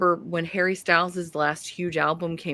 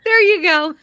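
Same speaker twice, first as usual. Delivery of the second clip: laughing; 9 dB louder than usual. Real, not acted. Laughing approval.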